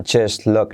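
"just look" run together as "jus look"; silent T in JUST. Shown as a demonstration. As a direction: drop the T of "just" before "look". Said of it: "La T no se pronuncia". ("just look" sin pronunciar la T)

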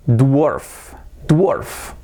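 "dwarf" with the w sounded, like "duorf"; mispronounced dwarf. Shown as a demonstration. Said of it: "que decíais".

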